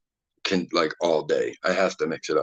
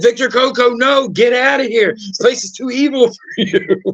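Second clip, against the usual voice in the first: very high-pitched retold warning; high mock alarm; mock-panicked warning; 12 semitones higher than usual. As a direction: warn him off in a high, hammed-up voice. Retells own panicked warning to guest.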